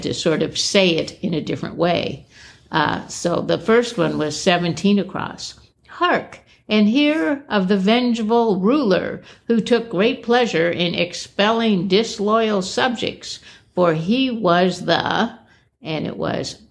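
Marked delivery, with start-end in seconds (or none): 5.9-15.4 raised, grand storyteller voice; mock medieval herald. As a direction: proclaim like an old herald. Reading mock-archaic clue aloud.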